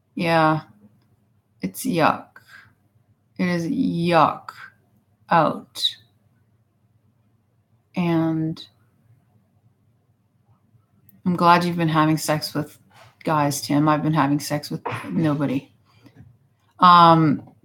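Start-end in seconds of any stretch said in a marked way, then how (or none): 8.0-15.7 really bitter, resentful tone. Speaker responding to another person's news, in a really bitter way. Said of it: "I said that in a really bitter way".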